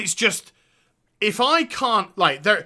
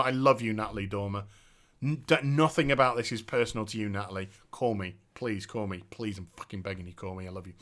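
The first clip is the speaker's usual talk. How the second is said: much softer, hushed mock begging; mock lovesick plea; 10 semitones lower, 8 dB quieter, faster than usual. Fan pleading with Natalie Dormer, hushed and lovesick. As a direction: croon it like a desperate fan.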